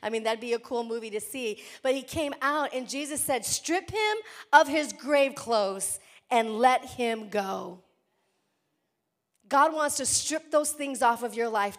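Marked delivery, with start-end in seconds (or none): 3.4-7.8 slow, louder command. Acted. Pastor voicing Jesus ordering the grave clothes off, louder and slow. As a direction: order them to strip him, firm and slow.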